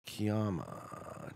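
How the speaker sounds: ordinary delivery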